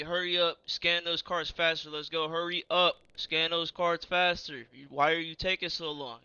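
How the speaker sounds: loud, impatient yell from the back; imitated yelling. Man at back of line hurrying the cashier, yelling. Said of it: "yelling at me".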